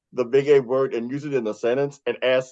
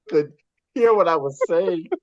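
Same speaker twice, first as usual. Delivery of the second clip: talking through laughter; real amusement breaking into the words; can't help laughing while recalling it; 3 semitones higher than usual. Real, not acted. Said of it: "I'm laughing thinking about it".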